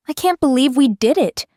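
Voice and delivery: high, loud, thrilled exclamation; loud, enthusiastic burst; bubbling enthusiasm. Acted. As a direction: exclaim it, bubbling over with excitement. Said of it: "she exclaimed, her voice bubbling with enthusiasm".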